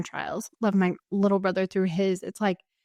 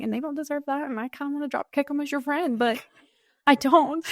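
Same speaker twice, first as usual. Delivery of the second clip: higher, teary voice with a protective edge; teary but lighter; 4 semitones higher than usual. Real, not acted. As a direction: still choked up, half joking about her friend. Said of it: "Sorry, I'm gonna cry".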